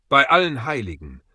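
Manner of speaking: lauter, erschrockener Ausruf; erschrockenes Stammeln. A narrator's reading. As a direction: entsetzt hervorgestoßen. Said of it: "stammelte Maggie". (erschrocken stammelnder Aufschrei)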